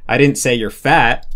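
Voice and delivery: "didn't" and "fat" punched, "say" unstressed; stress on FAT and DIDN'T. Shown as a demonstration. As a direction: lean on didn't, then fat. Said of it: "in pitch are changing the meaning".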